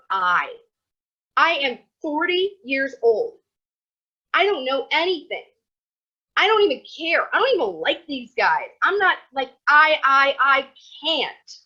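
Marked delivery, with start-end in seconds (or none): 1.4-11.5 hammed-up despair; mock frustrated whine. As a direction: whine it like a stubborn old student. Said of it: "Akiva's inner doubts voiced".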